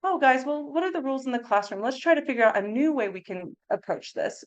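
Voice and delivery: gentler redo. Acted. Teacher asking the class about the rules, gentle correction. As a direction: redo the telling-off as a friendly invitation. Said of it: "should have said it differently".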